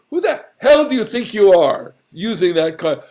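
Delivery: mock outrage at his nerve; indignant rebuke. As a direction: take him down a peg. Mock rebuke of pompous Reuben.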